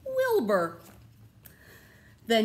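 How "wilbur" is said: high, drawn-out announcing of the name; dramatic name reveal. A narrator's reading. Teacher reading to class, unveiling the hero with a flourish.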